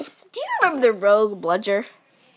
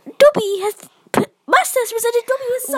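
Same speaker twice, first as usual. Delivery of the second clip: high crying elf voice, much louder; house-elf voice; 11 semitones higher, 4 dB louder than usual. Acted. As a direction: wail it like a frantic little elf. Imitating Dobby again.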